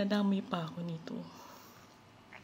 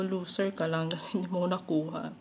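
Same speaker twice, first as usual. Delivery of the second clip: laughing comeback. Retold or imitated. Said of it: "Sabi ko".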